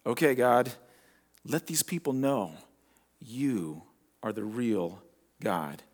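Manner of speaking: low, soft, slowing retold prayer; quiet plea with long pauses; hushed prayer. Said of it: "And then he prayed".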